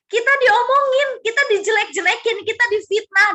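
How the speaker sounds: loud, high-pitched preaching outburst; impassioned outcry. Acted. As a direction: cry out the injustice at full voice. Acting out being slandered.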